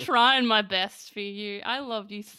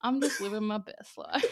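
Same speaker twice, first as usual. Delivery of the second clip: mocking put-on smooth-talker voice, quieter; 5 dB quieter than usual. Mocking a type of person, imitating a smooth jazz douchebag. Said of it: "smooth jazz douchebags who's like".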